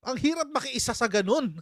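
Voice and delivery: laughing. Real, not acted. Host finding it hard to unite with that, laughing. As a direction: crack up while repeating the point. Laughing as he repeats his point.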